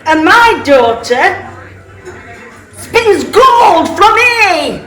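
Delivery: boastful shout. Acted. Boastful miller shouts claim.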